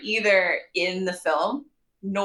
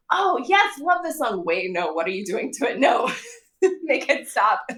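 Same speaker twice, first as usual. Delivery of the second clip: retold delight turning to protest; 4 semitones higher than usual. Acts out own reaction during rewatch.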